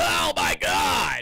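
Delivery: sports commentator exclamation, like a TV analyst. Imitating how a broadcaster calls games: Pat McAfee impression. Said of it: "McAfee's just gonna be like".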